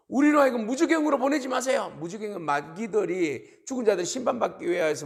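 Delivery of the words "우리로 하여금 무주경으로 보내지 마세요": high, loud plea; acted high-pitched begging; pleading demons. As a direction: beg loudly at a raised pitch. Acting demons pleading with Jesus.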